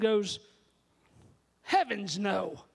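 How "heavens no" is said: put-on British accent, drawn out. English leader answering young David, in a British accent. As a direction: do your best British leader, slowly. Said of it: "That's my best British accent".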